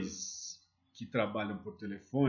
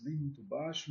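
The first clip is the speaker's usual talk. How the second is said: the words "nem muito baixo" said softer, showing too quiet; spoken softly; 6 dB quieter than usual. Shown as a demonstration. Sales teacher showing trainees a too-quiet voice, softer. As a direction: drop the volume on "nem muito baixo" to show it. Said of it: "a entonação da sua voz".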